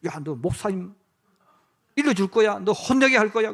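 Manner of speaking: lightly voiced nagging adult warning a noisy child; scolding threat. Adult scolding noisy kids in church, mock threatening. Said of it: "그래요".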